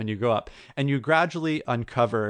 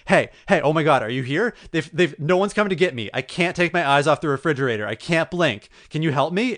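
higher-pitched imitation of panicked pleading; freaking out; 3 semitones higher than usual. Trapped man pleads with whoever just arrived, mock freaking out. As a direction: retell a man begging for help, agitated. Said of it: "he's freaking out".

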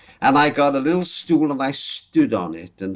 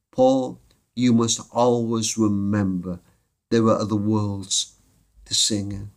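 gentle comfort; 4 semitones lower, slower than usual. Retold or imitated. Message from dead Sally.

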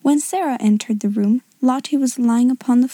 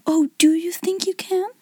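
high, mildly breathless question; a touch of gasping relief; gasped; 7 semitones higher than usual. A narrator's reading. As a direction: ask with helpless, desperate hope. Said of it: "she gasped".

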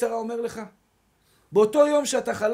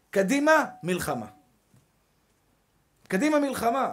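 self pep talk. Retold or imitated. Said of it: "אני אומר לעצמי".

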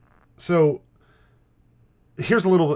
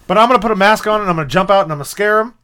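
loud, higher goofy suburban dad voice; Clark Griswold dad; 6 semitones higher, 9 dB louder, much faster than usual. Pretend. Dad pitches his basement haunt to wife, goofy loud. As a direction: play the overeager dad with a big plan. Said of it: "a Clark Griswold figure, is like".

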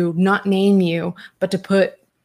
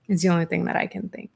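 whispered aside; 5 dB quieter, faster than usual. Real, not acted. Trailing aside after speculation.

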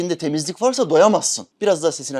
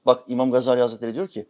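ordinary talk

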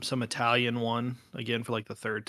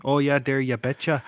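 put-on Minnesota accent. Guy showing off his Minnesota accent. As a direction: lay on the Upper Midwest accent. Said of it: "I get in trouble for my accents".

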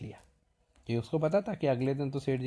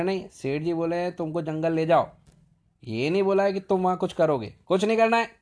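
high, loud insistence; stern scolding; 5 semitones higher, 7 dB louder than usual. Retold or imitated. Servant insisting to the boy he must not go, loud scolding. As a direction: lay down the rule sharply.

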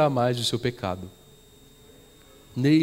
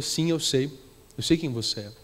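calm gentle reply; 2 semitones lower, 6 dB quieter than usual. Acted. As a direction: answer her gently, without judgement. Pastor answers the repentant witch.

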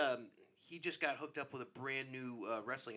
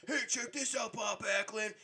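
much higher, thrilled call; excited shout-out; 9 semitones higher than usual. Retold or imitated. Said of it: "and I'm like".

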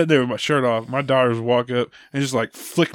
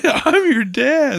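high, loud, drawn-out protest; slow, pitched-up mock indignation; mock exasperated dad; 13 semitones higher, 5 dB louder, slower than usual. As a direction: act out a dad pulling rank. Dad retorting in retold yelling match.

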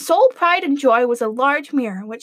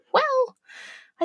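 whisper; 12 semitones higher, 3 dB quieter than usual. Real, not acted. Whispered on its own.

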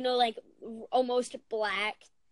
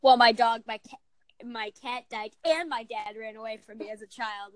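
one-upping whiner; 6 dB louder than usual. Retold or imitated. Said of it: "one-up somebody when they're like".

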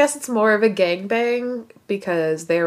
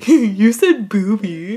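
immature muttering; 6 dB louder, slower than usual. Retold or imitated. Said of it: "it would be more like".

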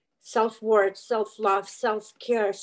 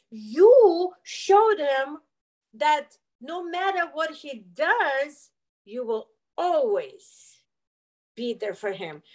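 no sugar coating, slowing and sinking; blunt confrontation; 2 semitones higher, slower than usual. Retold or imitated. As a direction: therapist spelling out the hard truth, slow then fading. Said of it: "this young therapist says to me".

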